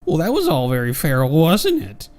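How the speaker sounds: loud, high sneering taunt; mocking villain. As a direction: jeer at the hero.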